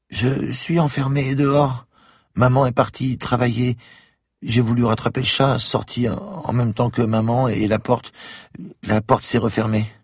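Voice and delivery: put-on a shy child of nine, close to tears; little girl voice. A narrator's reading. Little girl at the door tells the policeman she is locked out, high and tearful.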